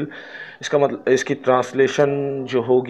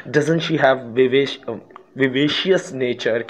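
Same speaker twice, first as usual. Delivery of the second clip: slow example reading; much slower than usual. Shown as a demonstration. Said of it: "reads negative question".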